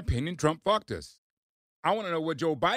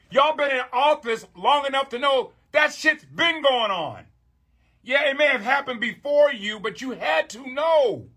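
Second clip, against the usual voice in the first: raised, higher, nearly shouting; heated rant; 6 semitones higher than usual. Real, not acted. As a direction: let the frustration boil over at them. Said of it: "sometimes I get a little emotional".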